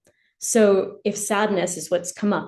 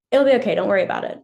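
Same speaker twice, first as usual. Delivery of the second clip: fast, louder brush-off; dismissive reassurance; 4 dB louder, much faster than usual. Retold or imitated. Parent rushing past a teen's feelings, fast and dismissive. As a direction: rattle it off to move past the feeling.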